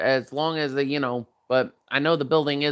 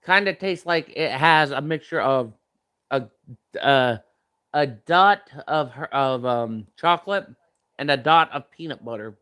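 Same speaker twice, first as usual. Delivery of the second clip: talking through a mouthful of food; words around a bite of food; mouth full; 2 semitones lower than usual. Real, not acted. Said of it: "talk with my mouth full".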